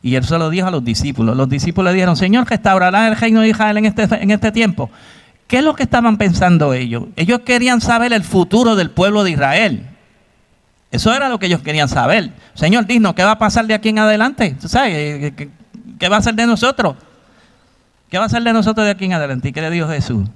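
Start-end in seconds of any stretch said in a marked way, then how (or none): 2.2-4.9 voicing the disciples. Disciples' question voiced in sermon. 12.5-19.5 pleading disciples. Acted. Preacher voices anxious disciples.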